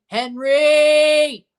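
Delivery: loud, high cry of the keeper's name; excited shout. Real, not acted. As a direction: call out his name as he makes the save.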